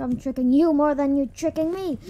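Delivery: yelling through laughter; laughing shout. Real, not acted.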